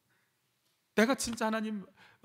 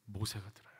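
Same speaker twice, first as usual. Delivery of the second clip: soft, lower whisper; 8 semitones lower, 11 dB quieter than usual. Acted. Preacher to congregation, answering in a whisper. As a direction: let it fall to a whisper. Answers own question softly.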